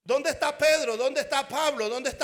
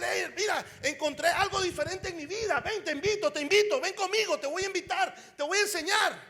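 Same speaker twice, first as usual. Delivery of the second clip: excited; 3 semitones higher than usual. Acted. Excited convert inviting friends.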